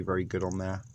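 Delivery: talking while crunching on a snack; words through a crunchy mouthful; crunching chips. Real, not acted. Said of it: "Sorry for my crunching".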